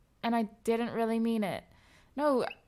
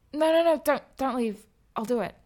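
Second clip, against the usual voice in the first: pleading; 3 semitones higher, 6 dB louder than usual. Acted. Begging him not to leave.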